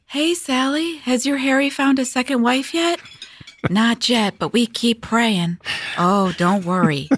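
high, sugary 1950s housewife gossip; chirpy churchy housewife chatter; Mormon housewife voice. Acted. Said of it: "Manti Mormon housewife voice number twelve".

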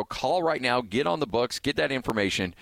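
upbeat hard-sell radio plug; excited promo pitch. Acted. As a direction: push them to pick up the phone now. Host pushes listeners to call.

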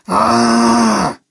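short, high mock scream of a grieving father; a hint of a blood-curdling scream; imitated scream. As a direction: let out a brief, restrained imitation of his scream. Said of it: "He just screamed, blood-curdling screaming".

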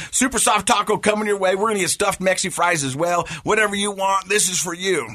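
hyped-up promise. Retold or imitated. Dad to daughter about taco dinner, playfully hyped-up. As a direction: talk it up like a treat.

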